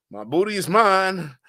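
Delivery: high, slow cartoon protest; Tom DeBoer. Streamer quoting a Boondocks character, high indignant voice. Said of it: "that was, uh, Tom DeBoer".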